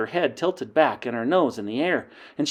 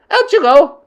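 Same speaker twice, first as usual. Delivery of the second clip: witch queen shouting; 14 dB louder than usual. Acted. Grand High Witch dismissing the coven, shouting. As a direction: end the meeting with a roar. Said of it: "she shouted".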